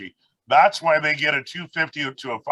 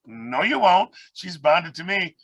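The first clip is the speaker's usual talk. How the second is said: higher-pitched, emphatic no, acting out the exchange; retold firm refusal; 5 semitones higher, slower than usual. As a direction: refuse the offer as if retelling it, pitch raised. Retold refusal of bird buyer.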